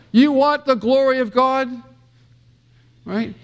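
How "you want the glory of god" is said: a light Nicholson impression, higher and punchy; a hint of the courtroom Jack Nicholson challenge. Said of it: "Jack Nicholson says".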